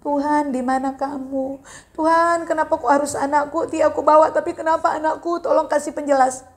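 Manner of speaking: imitated anguished prayer; Abraham crying out. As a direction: plead as if tearful, without real sobs. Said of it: "Abraham tuh nangis".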